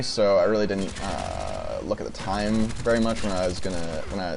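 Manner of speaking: nervous stutter, restarting words. Real, not acted. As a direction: stumble and restart your sentences. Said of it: "You can see I'm stuttering a little bit".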